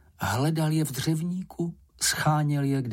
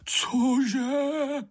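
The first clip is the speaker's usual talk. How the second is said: much higher, piping shocked cry; shocked outburst; 12 semitones higher than usual. A narrator's reading. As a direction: jolt up in disbelief. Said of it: "vykřikl Bambul". (vyděšeně vykřikne, mnohem výš)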